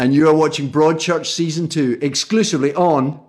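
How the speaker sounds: upbeat announcer's promo line; light promo read. Acted. Actor plugging Broadchurch on BBC America, light promo read. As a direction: sell the show to viewers with energy. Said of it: "Comedy, drama".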